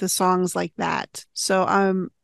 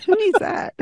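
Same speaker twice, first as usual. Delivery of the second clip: mock carefree; 12 semitones higher than usual. Mock quote after joke.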